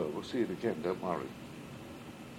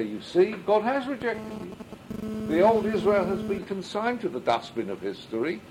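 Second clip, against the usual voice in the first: mocking accuser; 9 semitones higher than usual. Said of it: "to say".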